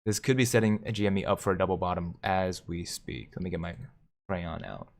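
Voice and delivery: usual speaking voice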